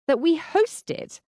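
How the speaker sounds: high, slow, surprised echo. Acted. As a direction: repeat it back in disbelief. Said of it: "I repeated, surprised".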